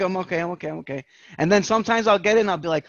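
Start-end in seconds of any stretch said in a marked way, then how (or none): 0.0-1.0 softer and softer reassurance; self-soothing. Retold or imitated. Man calming himself after panic, softer and fading. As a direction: talk yourself down, fading.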